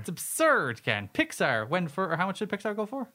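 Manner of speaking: exasperated, rising protest; mini rant. Real, not acted. Cohost arguing Pixar was undervalued, ranting. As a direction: protest the absurdity to your cohost. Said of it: "Mini rant over".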